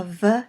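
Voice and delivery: V said as a short "vuh"; V sound. Shown as a demonstration. Teacher explaining how Vav is pronounced, V sound. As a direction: voice V as its bare consonant sound. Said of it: "it is either a V sound".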